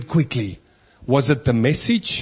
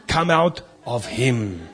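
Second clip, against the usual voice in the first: slow, lower, understated order; understated command; 4 semitones lower, slower than usual. Acted. Preacher replaying Jesus' command to the demon, understated and slow. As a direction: say it simply and slowly, pitched down. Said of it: "It was just".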